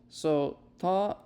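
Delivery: "ta" pressed with the tongue high, little air; emphatic t. Shown as a demonstration. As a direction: hold the air back on "ta". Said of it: "and you do a ta".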